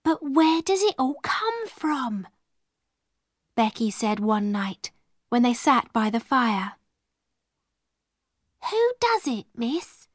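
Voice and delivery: put-on an awed young servant girl; lightly voiced young maid. Becky, the maid, asking Zara in wonder.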